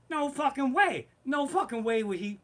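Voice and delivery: loud, high-pitched disbelief; incredulous outburst. Real, not acted. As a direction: blurt it out, outraged at the idea. Incredulous comic rant.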